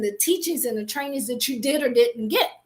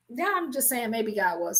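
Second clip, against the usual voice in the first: softer, sinking half-hearted objection; mock hedging; 2 semitones lower, 5 dB quieter than usual. Listener quibbling with the preacher, mock hedging. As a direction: let the feeble excuse drop low and soft. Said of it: "you're gonna be like".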